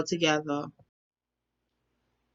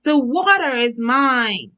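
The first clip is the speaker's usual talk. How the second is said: angry; 5 semitones higher than usual. Acted. Quarrelsome frog claims pond.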